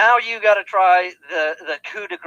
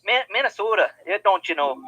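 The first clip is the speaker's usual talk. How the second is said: light mock Minnesotan "don't you know"; a hint of a Minnesota accent; 3 dB quieter than usual. Friend lightly answering in a mock Minnesotan accent. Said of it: "they kinda do talk like this".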